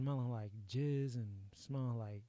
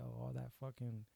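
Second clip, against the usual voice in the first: ordinary talk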